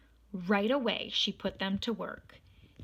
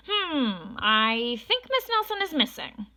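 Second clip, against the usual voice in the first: higher, louder hammed-up detective musing; pondering detective; 6 semitones higher, 7 dB louder than usual. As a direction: play a self-important sleuth.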